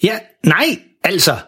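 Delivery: tøvende far, lysere i tonen; søg efter ordene, let overrumplet; lidt forvirret. Acted. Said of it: "han er blevet lidt forvirret". (let forvirret)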